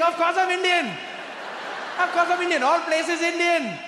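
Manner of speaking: proud, gleeful Indian waiter; Indian accent. Retold or imitated. Waiter laughing at Trevor, high Indian accent. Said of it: "start talking with accent".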